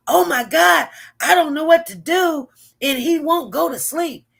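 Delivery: high, loud and flustered, at her wits' end; imitating a frazzled mother; frantic mom. Mother tells babysitter her son won't sleep, high and frantic.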